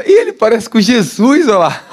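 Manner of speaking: a lightly voiced amazed little boy; boy in traffic. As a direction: imitate the delighted kid at the window. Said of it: "e falou".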